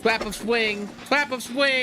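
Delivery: put-on baby talk. Baby talk, higher pitched.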